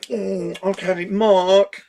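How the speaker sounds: hum, then stretch out okay Mark like the director; Richard Marquand impression. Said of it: "so I do an impression of him".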